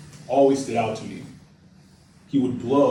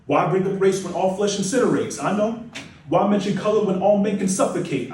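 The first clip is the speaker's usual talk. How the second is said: imagined objection; 5 semitones higher than usual. Acted. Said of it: "I know what some of you are thinking".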